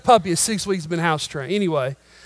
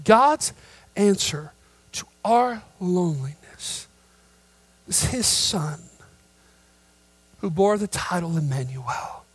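hushed reverence; 3 dB quieter than usual. Real, not acted. Soft after climax.

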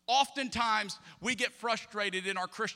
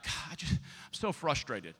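mock frustrated wife; 5 semitones lower than usual. Wife quoted sighing.

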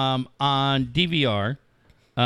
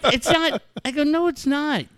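laughing protest; 12 semitones higher than usual. Retold or imitated. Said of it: "I'm like".

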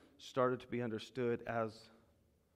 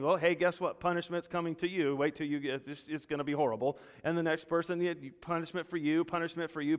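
sing-song mock warning, louder and higher; mock doom announcer; 4 semitones higher, 4 dB louder than usual. Preacher mocking a prophet's message to rebels, sing-song. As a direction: tease them with cheerful doom.

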